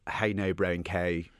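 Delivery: slow, drawn-out Dublin 4 vowels on How Now Brown K; Dublin 4 accent. Shown as a demonstration. Author showing the interviewer the Dublin 4 accent, slow and drawled. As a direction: stretch the vowels like a posh south Dublin kid. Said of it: "there's elements of that sort of".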